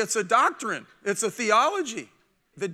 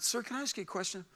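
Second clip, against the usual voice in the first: timid request; 9 dB quieter, faster than usual. Retold or imitated. Timidly approaching an unsociable preacher.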